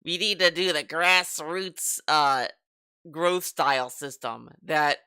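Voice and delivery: slow, lightly voiced boomer exec; mock CEO boomer. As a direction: drag it out like an old executive. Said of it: "talk like a fucking C E O boomer".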